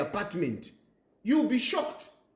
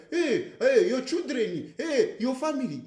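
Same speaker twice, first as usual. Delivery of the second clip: mocking critics; 4 semitones higher than usual. Mocking critics who ask about family.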